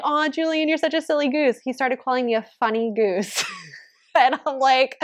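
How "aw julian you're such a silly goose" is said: put-on higher-pitched fond teasing of a toddler; doting mom. Mom teasing her toddler son, fondly in a higher voice. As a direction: coo it lightly, like a parent to a little one. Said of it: "I call him a silly goose sometimes".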